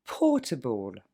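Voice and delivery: Portable said very slowly, able unstressed; slow model word. Shown as a demonstration. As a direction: drag portable out, weak ending. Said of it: "Deuxième mot". (Portable très lentement, fin non accentuée)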